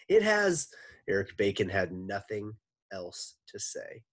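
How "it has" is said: shouting. Acted. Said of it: "shouted Eric Bacon".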